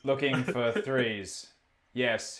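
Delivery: slow flat monotone delivery; deadpan voice. Shown as a demonstration. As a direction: read it dead flat, no emotion. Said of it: "I'll do it in a really deadpan voice".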